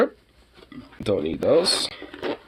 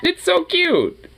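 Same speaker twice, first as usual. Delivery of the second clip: sweetly morbid; 9 semitones higher than usual. Real, not acted. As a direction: coo at it, much higher. Cooing at baby cobra.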